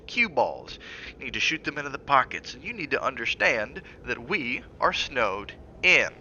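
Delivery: a touch of anger, pressing and lecturing; husband scolds his wife, rising irritation; temper flaring. Acted. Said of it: "His temper flared".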